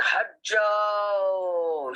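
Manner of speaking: shouted command in a heavy put-on voice; imitating a shouting jinn. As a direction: bark Hat jao like a spirit. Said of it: "She was going on talking like that".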